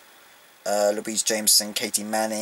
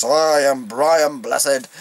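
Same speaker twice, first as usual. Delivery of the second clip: very slow, louder booming proclamation; booming Brian Blessed; 3 semitones higher, 6 dB louder, much slower than usual. Retold or imitated. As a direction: boom it out like a grand thespian. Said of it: "the booming voice".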